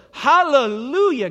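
loud, slow, drawn-out praise; shouted hallelujah. Acted. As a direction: ring it out. Preacher exclaims praise.

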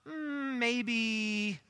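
long, lingering hum into the word; hesitant, held-out guess; drawn-out hesitation. Real, not acted. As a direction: stretch it out while weighing the number. Drawing out an estimate.

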